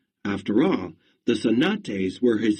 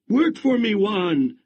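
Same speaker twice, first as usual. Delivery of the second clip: townsfolk shouting; 8 semitones higher than usual. Acted. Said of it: "everyone shouted".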